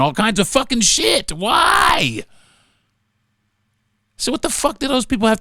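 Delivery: shouting the word Why up high; angry outburst. Real, not acted. Ranting to listeners about stolen land, then a furious shout. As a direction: rant building to a furious shout.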